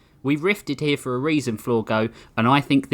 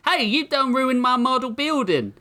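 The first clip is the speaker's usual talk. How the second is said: hick deputy whine; 12 semitones higher than usual. Acted. Deputy whining at the FBI agent over his broken model. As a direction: whine like a wronged country deputy.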